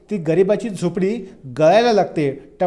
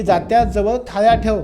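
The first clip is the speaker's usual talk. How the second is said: commanding mother; 2 semitones higher than usual. Retold or imitated. Mother ordering son to place pots under leaks, in a firm commanding call. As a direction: rattle off chores like a mother in charge. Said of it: "order सोडते".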